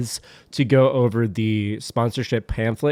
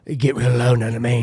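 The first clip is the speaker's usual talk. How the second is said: lightly voiced gruff action star; Jason Statham. Podcaster doing a movie-star impression on mic, lightly gruff. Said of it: "a Jason Statham impression".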